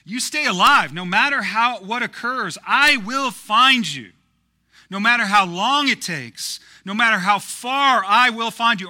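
put-on loud, high, impassioned English-accent movie vow; hammed-up English hero shouting a parting promise; Hawkeye in English accent. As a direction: call it out urgently in an English accent. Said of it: "say it in an English accent".

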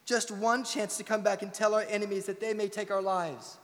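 rally the troops, a light battle-speech voice; Braveheart speech. Retold or imitated. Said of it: "you got it memorized".

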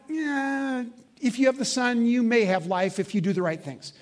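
wrong hedging version. Shown as a demonstration. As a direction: shrug it off as if life were conditional.

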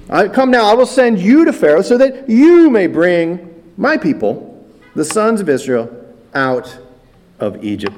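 loud, emphatic command that fades out at the end; commanding voice of God. Retold or imitated. The Lord repeating his call to Moses, loud then fading. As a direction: proclaim it, then let it drop away. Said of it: "God's command repeated".

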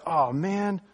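drawled West Texas redneck voice; West Texas accent. Retold or imitated. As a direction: play a West Texas good ol' boy. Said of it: "You see the, the West Texas accent?".

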